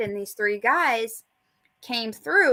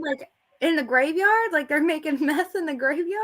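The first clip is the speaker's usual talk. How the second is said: disbelieving question rising high; can't believe meth is made in a graveyard; incredulous; 5 semitones higher than usual. Real, not acted. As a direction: ask it in shocked disbelief, half laughing.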